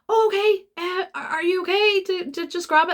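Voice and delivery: high, mock-polite retelling of herself; lightly hammed-up polite question; polite surprise. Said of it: "And I went".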